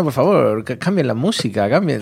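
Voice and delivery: lightly put-on Argentine accent, requesting a song; a hint of a River Plate lilt. Prank caller asks the DJ to change the music, in a mild Argentine accent. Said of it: "Y él ponía acento argentino".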